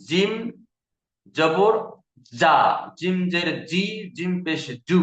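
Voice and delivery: জিম said hard and firm; firm jim. Shown as a demonstration. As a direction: give জিম জবর জা a strong, hard j. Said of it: "জিমের উচ্চারণটা শক্তভাবে হবে".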